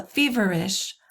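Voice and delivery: "feverish" stressed on "fe", then two light syllables; strong first beat in "feverish"; dactylic stress. Shown as a demonstration. Teacher illustrating a dactyl, "feverish" front-stressed. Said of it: "It's stressed and then two unstressed".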